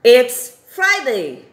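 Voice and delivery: slow, emphatic classroom answer; slow teaching demo. Shown as a demonstration. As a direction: lean into It's Friday, slow and loud. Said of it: "Aí você responde".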